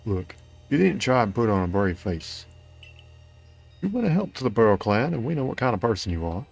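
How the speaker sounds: lightly voiced clan member, sympathetic but formal; a hint of a kindly, regretful character; game character voice. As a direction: read it as measured in-game counsel with lilting pitch.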